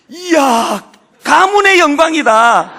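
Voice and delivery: loud, slow, over-the-top cheer of delight; overjoyed exclamation. Retold or imitated. Pastor playfully flattering his daughter's test score, loud and slow. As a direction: gush with exaggerated pride. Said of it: "나 그렇게 답 보냈습니다".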